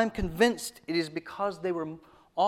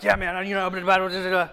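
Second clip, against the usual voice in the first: friend rambling on; 3 semitones higher, 3 dB louder, faster than usual. Retold or imitated. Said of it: "He'd be like".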